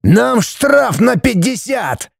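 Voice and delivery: slow, high-pitched strained shout; furious roar. A narrator's reading. Judge shouting about the fine, furious. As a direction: hammer it out in outrage. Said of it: "взревел судья".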